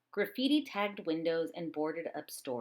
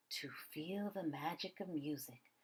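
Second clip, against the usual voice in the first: whisper; 3 semitones lower, 11 dB quieter than usual. A narrator's reading. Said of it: "the blind man whispered".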